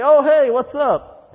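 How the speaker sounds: high, loud, drawn-out hello; breezy oblivious greeting. Acted. Chess-playing assistant to returning owner, breezy loud greeting. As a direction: greet the boss as if nothing's amiss.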